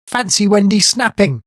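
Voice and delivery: high, loud amused exclamation; mock astonishment. A narrator's reading. Narrator marvels at Wendy snapping, mock shocked.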